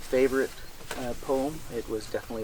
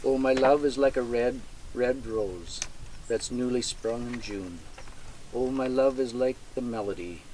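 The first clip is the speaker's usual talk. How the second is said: poem recital. Acted. Reads the Burns poem aloud.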